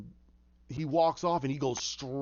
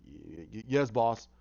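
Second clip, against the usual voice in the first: mock nervous stammer, low; stammering henchmen; 6 semitones lower, slower than usual. Henchmen answer their boss, imitated nervous stammer. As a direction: stutter out a cowed acknowledgement.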